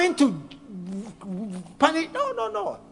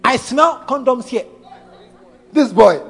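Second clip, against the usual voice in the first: laughing mock inspector; 4 dB louder than usual. Inspector God voiced sniffing out sin.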